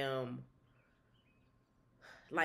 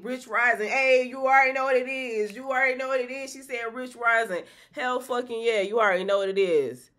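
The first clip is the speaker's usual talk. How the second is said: loud hype callout; excited shout; 6 semitones higher, 7 dB louder than usual. Real, not acted. Excited shout of a viewer name.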